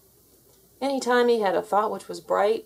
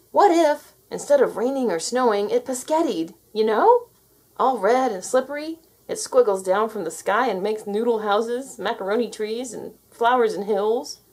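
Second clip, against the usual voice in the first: put-on eager child; 2 semitones higher, 4 dB louder than usual. Terry to Nobody, eager and excited. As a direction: sell the idea with glee. Terry pitching his wild idea.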